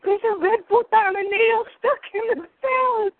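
high, loud and slow, spelling it out; exasperated insisting. Retold or imitated. Telling friend about nail in salad, slow loud insistence. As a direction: stress each word like she isn't listening. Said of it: "I'm like".

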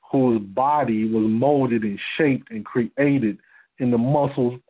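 winded, voice giving out; running short of breath mid-sentence. Real, not acted. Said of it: "I'm losing my breath".

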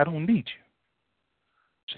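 drawn out very slowly, each word weighed; slow, emphatic God's answer. Acted. Preacher voicing God to the congregation, slow and emphatic. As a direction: let God's refusal sink in, slowly.

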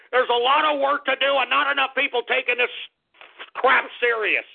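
winding the rant back up; heated again. Pretend. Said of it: "let me calm down".

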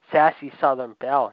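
lightly mock her as a sassy Southern belle.

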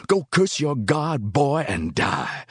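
slow, drawn-out moan falling from high. A narrator's reading. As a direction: moan it out like a lament.

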